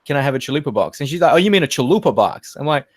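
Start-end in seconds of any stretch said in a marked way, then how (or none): 0.1-1.0 chalupa box said the Aussie way; Australian accent. Retold or imitated. Aussie customer ordering at Taco Bell, Australian accent. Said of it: "I'm the Aussie one here". 1.3-2.6 imitated American server saying chalupa box; American accent. Fast food worker repeating the order back, imitated American accent. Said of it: "speak in an American accent".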